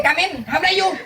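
playful high voice on the edge of laughter; small voice demo. Shown as a demonstration. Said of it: "เสียงเล็กนี่คือเสียงแบบ".

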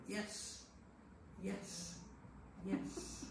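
hushed, nodding yes yes yes; soft mock yeses. Reader ticking the margin in soft agreement. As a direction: softly mimic people agreeing.

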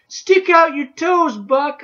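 high, slow, desperate scream. A narrator's reading. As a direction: scream the warning, drawn out. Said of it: "I screamed at him".

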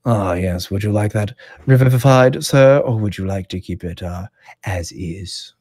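a hint of a prim servant; courteous offer, fading at the end; manservant voice. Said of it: "And he goes".

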